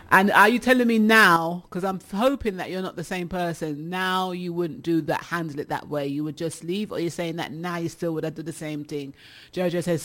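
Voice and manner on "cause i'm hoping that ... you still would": much softer, asking it quietly and seriously; hushed earnest question. Real, not acted. Host drops to serious question.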